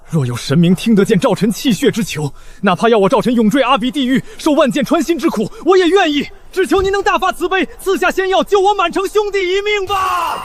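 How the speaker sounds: begging, voice strained; desperate plea. Acted. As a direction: beg the gods for mercy. Begging the gods for mercy.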